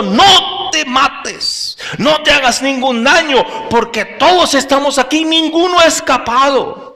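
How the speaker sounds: urgent call. Acted. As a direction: call out to stop him. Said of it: "clamó a gran voz, les gritó".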